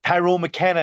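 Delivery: imitated growing anger. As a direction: imitate an official losing patience. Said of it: "he started getting angry".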